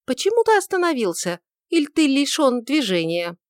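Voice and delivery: put-on young woman prodding her stalled lover; impatient demand. A narrator's reading. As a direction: needle him to move on. Judith scolds him.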